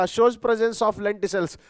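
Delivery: very slow, word-by-word dictation; teacher dictating notes, very slow. Shown as a demonstration. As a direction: spell it out slowly for note-taking.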